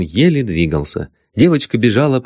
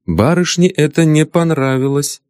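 ordinary delivery

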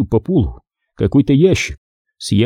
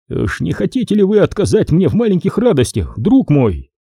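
higher, mocking older major; a sly, indulgent Stone; Stone's silky voice; 7 semitones higher than usual. A narrator's reading. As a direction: voice Stone teasing his partner. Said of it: "обратился Стоун к Нику".

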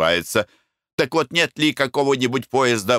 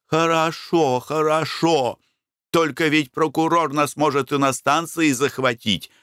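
lightly voiced wife, higher; a weary wife giving in, pitched up; wife's voice; 7 semitones higher than usual. A narrator's reading. Wife answers the anxious husband, higher voiced.

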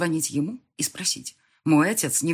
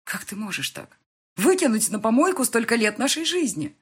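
much louder and higher, anguished cry; wife's loud anguished outcry; exclaimed; 7 semitones higher, 5 dB louder than usual. A narrator's reading. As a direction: hurl the accusation at him. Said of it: "воскликнула я".

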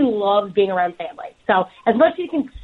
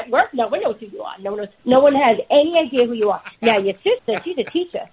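mom's voice; 5 semitones higher than usual. Retold or imitated. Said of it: "She goes".

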